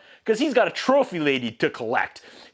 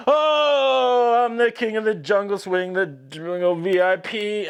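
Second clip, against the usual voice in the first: mock jungle boy; 5 semitones higher, slower than usual. Mowgli boasting in the dungeon, hammed-up high voice. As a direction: ham up Mowgli's silly jungle chant. Reviewer mocking Mowgli's song.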